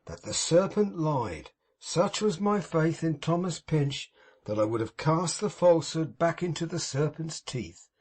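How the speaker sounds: a hint of mournful piety put on for show; unctuous Pecksniff. Pecksniff grieving over Tom to old Martin, sanctimonious.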